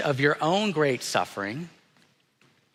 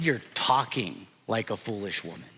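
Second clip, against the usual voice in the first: softer, tender, not scolding; gentle loving husband; 4 semitones lower, 4 dB quieter than usual. Shown as a demonstration. Pastor rereads Job's words to his wife, gently and tenderly. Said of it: "what I hear is a man who loves his wife".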